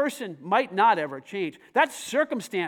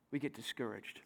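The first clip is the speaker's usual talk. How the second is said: plain; 10 semitones lower, 13 dB quieter than usual. Acted. Drops voice on discouraged.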